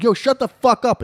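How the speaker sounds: high, loud angry shout; acted-out furious command; retold yell. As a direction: imitate a man suddenly turning to yell at someone. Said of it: "And he yells at me".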